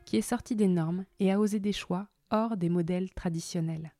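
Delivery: smooth scripted intro read over music; podcast intro narration. Acted. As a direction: present the guest like a polished podcast host. (lecture d'introduction de podcast, posée et scénarisée)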